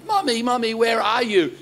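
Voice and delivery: mock plaintive call for mommy; lost child calling. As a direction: call out like a separated little kid.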